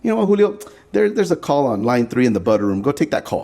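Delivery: a high, teasing put-down; mocking coworker. Coworkers tease Julio about quitting for art, mocking. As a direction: brush him off with a sneer.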